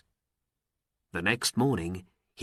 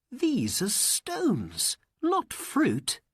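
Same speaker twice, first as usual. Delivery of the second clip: put-on despairing boy; 12 semitones higher, slower than usual. Aladdin trapped, despairing.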